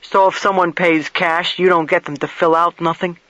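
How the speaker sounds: lightly voiced plain-spoken investigator; blunt investigator. Investigator questions motel keeper about the guest's arrival, lightly voiced blunt questioning. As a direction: put mild push into the questioning. Same question, repeated in recording.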